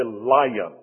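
lion in two syllables, "LY-yun"; Northern pronunciation. Shown as a demonstration. Preacher showing what he won't say, two-syllable Northern lion. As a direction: put a Y glide inside "lion". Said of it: "put a little Y in there".

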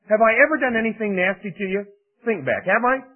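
high, loud pleading donkey voice. Retold or imitated. Donkey reasoning with Balaam.

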